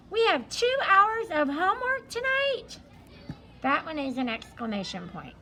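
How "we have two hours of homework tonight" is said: much higher and louder, shocked student protest; outraged disbelief. Retold or imitated. Teacher imitating students hearing about two hours of homework, shocked and loud. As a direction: wail it like a kid who can't believe the homework. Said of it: "with a little bit of, um, feeling".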